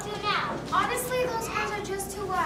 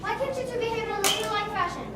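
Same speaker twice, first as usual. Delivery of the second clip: scolding grandma; 6 semitones higher, 10 dB quieter than usual. Acted. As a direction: scold the girls firmly.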